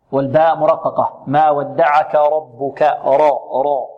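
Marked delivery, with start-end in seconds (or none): 1.3-2.8 slow recited ربك with a full, heavy r; heavy ra, light ba. Shown as a demonstration. Teacher contrasting letters in the verse, heavy ra. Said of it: "الراء هنا". 3.0-3.9 deep-coloured "ro" for راء; heavy ra. Shown as a demonstration. Teacher drilling the heavy letter for pupils, thickened ra. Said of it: "مفخمة".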